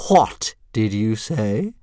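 hissed. Acted. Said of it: "hissed Fireworm".

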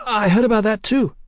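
high-pitched, eager woman's voice; quick eager reply. A narrator's reading. Woman hurrying to flatter the Texian, eager. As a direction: jump in, pitched right up. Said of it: "Sybil said quickly".

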